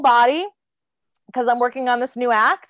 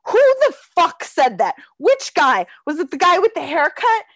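mildly livid retold outburst, raised pitch; 4 semitones higher than usual. Retelling the man's reaction to being accused, livid. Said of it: "He was livid".

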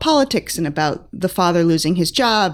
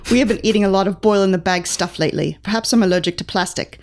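a light, wavering British accent, drifting toward Australian; British accent reading. Shown as a demonstration. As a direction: read the diary as a thirteen-year-old English boy in a loose British accent. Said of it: "Accent, please".

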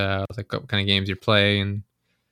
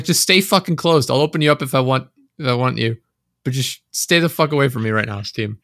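exasperated rant at Steam; 3 semitones higher than usual. Retold or imitated. Yelling at Steam popups.

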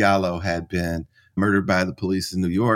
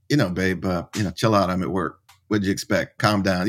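mildly patronizing. Retold or imitated. Husband trying to get wife off the phone, mildly patronizing. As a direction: talk her down as if it is no big deal.

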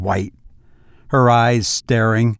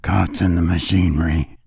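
lower, subdued, numb echo; dazed old husband, lightly voiced; 6 semitones lower than usual. A narrator's reading. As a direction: repeat it as if stunned. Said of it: "in a dazed fashion".

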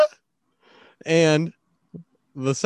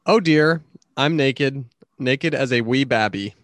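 mock British quote; 3 semitones lower, slower than usual. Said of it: "Why would you say it like that?".

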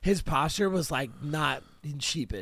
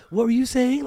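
loud, high, in-your-face demand; mock confrontation shouted at a driver; confrontational challenge; 9 semitones higher, 9 dB louder than usual. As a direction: get right up in his face. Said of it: "got in his shit".

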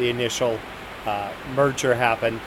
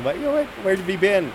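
put-on excited sorority girls; 7 semitones higher, much faster than usual.

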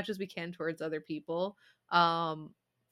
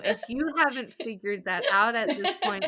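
normal talking voice

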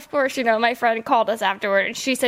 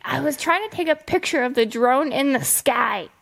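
retold lady driver; 3 semitones higher than usual. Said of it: "So she was like".

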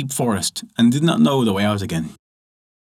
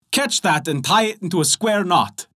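tailor's retort; 6 semitones higher than usual. Acted.

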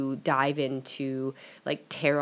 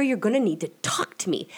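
sudden whisper, pleading with the spirits; exasperated whisper; 6 semitones higher than usual. Retold or imitated. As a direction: drop to a hissed whisper. Demanding signs from the spirits.

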